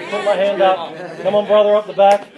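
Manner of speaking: rally the crowd for feedback; calling out. Real, not acted. Calling to audience for response.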